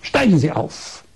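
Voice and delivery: retold bossy order, firmly stated; mildly imperious instruction; imitated imperious command. Woman doctor ordering patient to step up, mildly imperious. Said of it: "Da sagt sie ganz herrisch".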